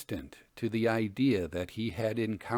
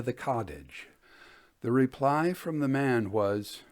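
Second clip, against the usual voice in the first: measured storyteller reading aloud; story narration. A narrator's reading. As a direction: read it like an old tale by the fire. Reads a ghost story aloud.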